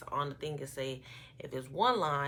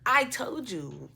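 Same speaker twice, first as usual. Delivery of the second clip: slow, loud, higher I told you; emphatic told you; 7 semitones higher, 9 dB louder, much slower than usual. Retold or imitated. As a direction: draw out I told you to rub it in. Repeats what she'd tell him.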